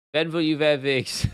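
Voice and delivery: slow mock accent, V for every W; put-on accent, drawn-out "wear wigs"; put-on interview accent. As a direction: quote it slowly in a thick foreign accent. Imitating the wigs interview, then laughs.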